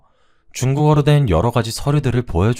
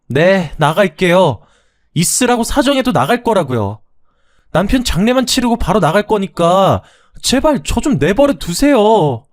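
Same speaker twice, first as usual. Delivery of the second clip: indignant protest; 11 semitones higher, 5 dB louder than usual. Acted. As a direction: fight back against the unfair blame. Daughter-in-law gives in angrily.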